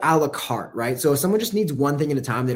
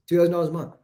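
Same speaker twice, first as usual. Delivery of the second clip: confident; 3 semitones higher, much faster than usual. Shown as a demonstration. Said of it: "be confident".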